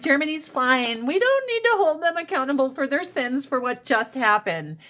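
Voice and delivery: high sarcastic parody; mocking voice. Mimicking Americans excusing Germany, sarcastic high voice. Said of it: "And now we're like".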